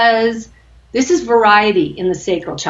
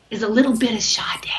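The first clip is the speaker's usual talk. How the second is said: whispered aside; 6 dB quieter than usual. Real, not acted. Teasing aside about music.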